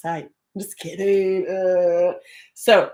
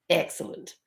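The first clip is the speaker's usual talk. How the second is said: soft, whispery aside; plotting under the breath; hushed relish; 6 dB quieter than usual. Retold or imitated. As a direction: drop to a near whisper. Retold gleeful reply to Alexa.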